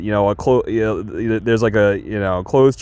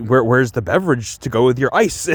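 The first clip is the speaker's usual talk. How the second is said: sheriff voice. Retold or imitated. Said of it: "The way he says it is, is really, really funny".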